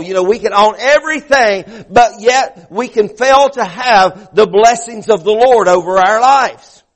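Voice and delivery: high, driving sermon delivery; fervent preaching. Real, not acted. Preacher urging the congregation about Jacob wrestling God, fervent preaching. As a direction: preach it hard, stretching the key words.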